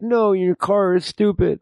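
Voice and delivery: high, put-on goofy thug voice; silly robber voice. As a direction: play the robber as a squeaky cartoon bully.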